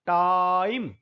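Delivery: टाइम said with a clear ai diphthong; vowel demo. Shown as a demonstration. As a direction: say टाइम so the ai is heard. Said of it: "आई बोलते हैं इसको". (टाइम में आई साफ़ बोलना)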